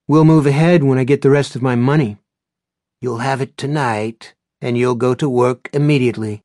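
loud clipped orders; firm boss on the phone; curt commanding. A narrator's reading. Tense phone deal.

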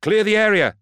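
very high, loud yell. A narrator's reading. Bequin running into the crowd to clear it, yelling. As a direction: yell the order over a crowd. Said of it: "Bequin yelled".

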